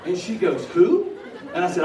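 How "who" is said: sudden high, loud surprised question; wife jolted awake, baffled by the name; startled who. Retold or imitated. Woken wife to husband at night, high and loud in surprise.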